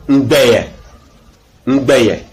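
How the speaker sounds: "ngbeye" with G and B released together; hummed "ng" into a joined gb in "ngbeye"; combined GB example. Shown as a demonstration. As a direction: model "ngbeye", falling at the end. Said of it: "forment B, comme".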